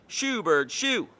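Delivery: loud shoo at a bird; shouting. A narrator's reading. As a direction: chase the bird off, yelling.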